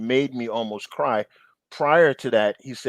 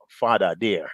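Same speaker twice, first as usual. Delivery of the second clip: put-on African accent. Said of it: "in his African accent".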